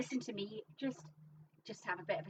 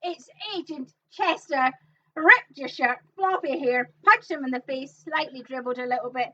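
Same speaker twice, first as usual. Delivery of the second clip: loud, punchy character introduction; mock-heroic shouting, building to a big whoa; hammed-up announcement; 4 semitones higher, 11 dB louder than usual. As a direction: call it out like a big reveal. Hammed-up tribute to Agent Chester.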